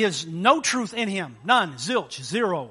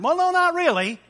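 sheepish liar; 10 semitones higher, 5 dB louder than usual. Retold or imitated. Liar caught, sheepish reply.

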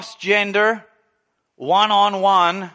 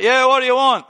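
gruff yell; 6 semitones higher, 4 dB louder than usual. Retold or imitated. Man under car snapping.

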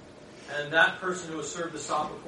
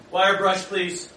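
mock call; 4 semitones higher, 9 dB louder, much slower than usual. Joking how to wash Judas' feet.

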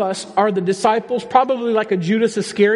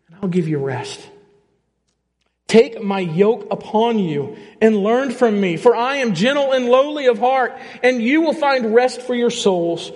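scripture reading. Acted. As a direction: read it like a promise, unhurried. Reads Matthew eleven aloud.

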